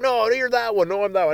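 put-on children arguing over a role; kids squabbling. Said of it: "the kids would fight over".

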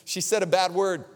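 put-on a touch of childlike distress; upset little girl. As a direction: imitate a kid reluctant to confess. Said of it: "the little girl was so upset".

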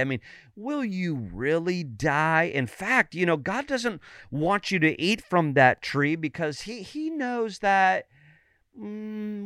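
a hint of a sly deceiver; lightly voiced tempter. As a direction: plant doubt with coaxing questions. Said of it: "the enemy came to her".

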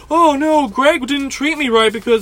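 mock his complaint; mocking whiny customer. Server mocking a customer's Yelp review, whiny mock voice. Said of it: "go on Yelp and go".

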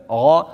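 "Ra" said dark and full; heavy letter. Shown as a demonstration. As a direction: give "Ra" a thick, heavy sound. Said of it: "zware letter".

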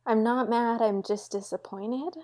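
mild mock-parent letdown, drawn out at the end; fatherly disappointment. Host giving thoughts on the movie, mock fatherly disappointment. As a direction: lightly play the disappointed dad. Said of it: "brings a good fatherly energy".

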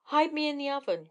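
bold cry. A narrator's reading. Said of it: "cried Jack".

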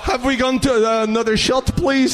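lightly high Russian voice begging for a shot; mock Russian accent, pleading. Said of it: "I could do Arshavin".

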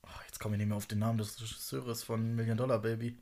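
leise vor sich hin flüstern; flüstert beim Nachdenken; flüsternd. Real, not acted. (flüsternd)

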